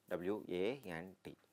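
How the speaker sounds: slow, letter by letter; slow classroom spelling of W A N T; spelled out slowly. Shown as a demonstration. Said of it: "வாண்ட் அப்படிங்கிறதுக்கான sign".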